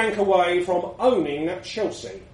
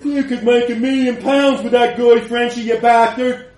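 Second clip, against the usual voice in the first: excited praise; 3 semitones higher, 7 dB louder than usual. Acted. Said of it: "Stink said".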